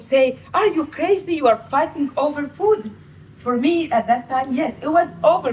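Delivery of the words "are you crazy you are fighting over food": higher, incredulous big-sister scold; mock scolding sister. Sister scolding her little sibling over chicken, incredulous.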